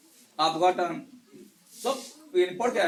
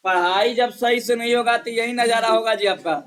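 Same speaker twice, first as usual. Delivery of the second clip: louder stern telling-off; stern teacher's reprimand, raised voice; scolding; 6 dB louder than usual. Real, not acted. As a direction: scold the class for not studying. Teacher scolding class on poor answers.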